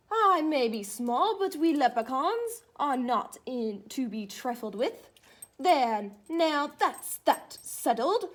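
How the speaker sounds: lively storybook read, a hint of a leprechaun; animated picture-book reading; reading to children. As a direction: read it as a cheeky little leprechaun telling his tale. Reads leprechaun's first-person story.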